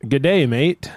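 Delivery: a half-done New Zealand "Good day, mate"; a light attempt at a New Zealand accent. Shown as a demonstration. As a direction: try a Kiwi accent, held back. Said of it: "could you mind doing it again".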